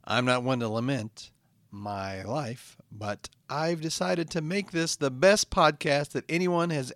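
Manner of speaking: slow, earnest host monologue; podcast host intro. Acted. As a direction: inspire the damned listeners, slowly.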